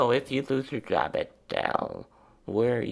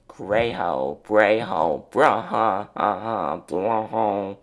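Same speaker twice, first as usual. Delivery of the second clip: imitating a friend; 5 dB louder, slower than usual. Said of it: "the Madge Weinstein likes to say".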